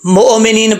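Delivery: मोमिनीन with a bounced vowel after मो; mistaken qalqala. Shown as a demonstration. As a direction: echo the hamza instead of stopping on it. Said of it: "ये कलकला है".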